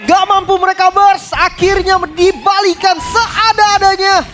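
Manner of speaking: high, loud hype call; fighting game announcer. Real, not acted. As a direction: scream the turnaround. Co-caster hypes the wipe.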